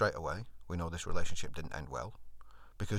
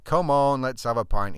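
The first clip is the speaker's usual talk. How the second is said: coaxing; 3 semitones higher, 9 dB louder than usual. Retold or imitated. Friend coaxing him to the pub.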